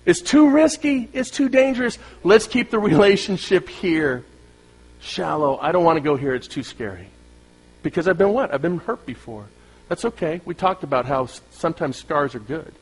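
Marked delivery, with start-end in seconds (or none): 0.0-7.1 higher timid voice that sinks to a murmur; fearful person. Retold or imitated. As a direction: lightly voice a scared, timid person. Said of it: "That's this person".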